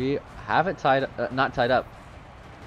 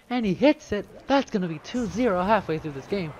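excited caster call; 9 semitones higher, 4 dB louder than usual. Real, not acted. Caster hype on goal.

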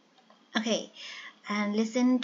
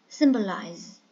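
symbolize, first syllable strong, then falling away; first-syllable stress; 3 semitones lower, 4 dB louder than usual. Shown as a demonstration. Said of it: "The first one is stressed".

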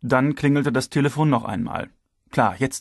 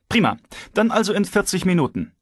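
chief, cheerful; 8 semitones higher than usual. A narrator's reading. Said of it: "fuhr Geser munter fort".

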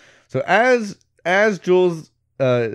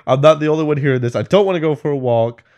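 freaking out; 4 semitones higher, 5 dB louder than usual. Retold or imitated. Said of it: "He's, like, freaking out".

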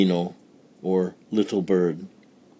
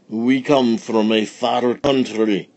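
put-on wise old sage; 3 semitones higher, 4 dB louder than usual. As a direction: speak like a solemn king. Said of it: "said one of the wise men".

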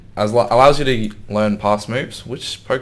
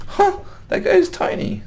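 laughing. Real, not acted. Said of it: "That was funny, sorry".

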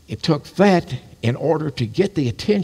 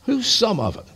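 pointed question; 10 semitones higher than usual. Retold or imitated. Presses the question again.

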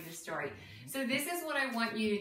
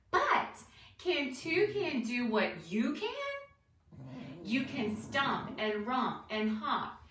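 lilting, deliberate rhyme reading; reading to children; 2 semitones higher, slower than usual. Acted. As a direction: read a bouncy rhyme to young listeners, questions lifted at the end. Reads picture book to children.

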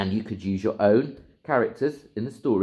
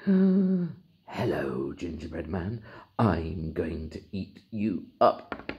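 snake voice; 2 semitones lower, much slower than usual. Acted. Snake greets gingerbread man.

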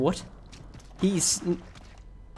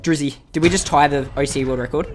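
excited question; 5 dB louder than usual. Real, not acted. Asking about world record.

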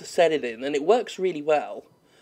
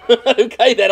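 startled outburst; 7 semitones higher, 10 dB louder, slower than usual. Real, not acted. Startled in fight.

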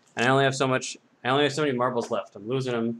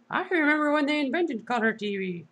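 robot voice; 13 semitones higher than usual. Acted. Robot voice reminiscing.

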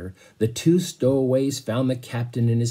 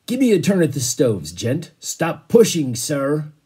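loud, higher rough shove for the stove; crowd shouting; 5 semitones higher, 5 dB louder than usual. Acted. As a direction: shout it at the man hogging the heat. Passengers shoving at the stoves.

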